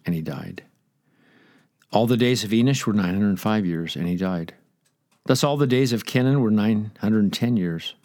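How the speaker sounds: measured scripture reading, each "and he died" dropping away. Acted. Preacher reading Genesis five to congregation, solemn scripture reading. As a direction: read the genealogy with solemn weight.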